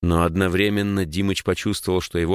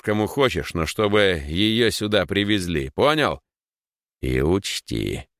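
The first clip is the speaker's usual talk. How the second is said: taunting, threatening thug voice; lightly voiced menacing thug; 2 semitones higher than usual. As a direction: press him like a smug thug. Kidnapper threatens the boy.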